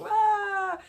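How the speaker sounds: high-pitched heckling gremlin voice; whiny, high gremlin jeer; nagging fuggler. Acted. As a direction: taunt like a little gremlin in someone's head. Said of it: "It's like its voice is kind of saying".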